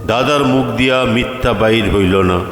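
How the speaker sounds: ordinary delivery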